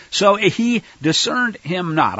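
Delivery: "discerned him not" slowed and weighted; slow down to underline "discerned him not"; deliberate emphasis. Real, not acted. Teacher underlining that Isaac missed it, slow emphasis. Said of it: "usually emphasize that word".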